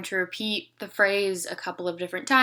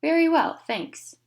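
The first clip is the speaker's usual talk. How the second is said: exaggerated model phrase; 9 semitones higher, 5 dB louder, slower than usual. Shown as a demonstration. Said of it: "kind of exaggerate".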